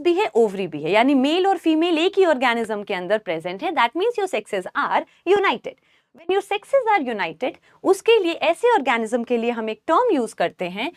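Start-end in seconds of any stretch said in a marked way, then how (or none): 3.7-7.5 slow, word by word, for notes; dictating pace; slow dictation. Shown as a demonstration. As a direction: spell it out slowly for the class. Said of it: "slow dictation of the definition".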